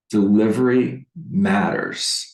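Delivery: ordinary talk, nothing marked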